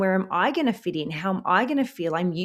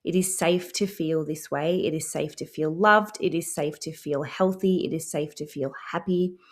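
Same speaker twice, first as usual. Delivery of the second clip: calm affirmations. Shown as a demonstration. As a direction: repeat each line like a soothing mantra. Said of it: "to recalibrate going".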